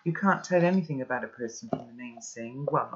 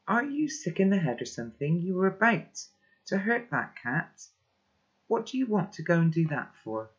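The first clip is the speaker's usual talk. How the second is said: mildly heated, higher-pitched challenge; a touch of outraged disbelief; indignant scolding; 4 semitones higher than usual. Acted. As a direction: tell someone off, without shouting. Acted quarrel over hurting the cat.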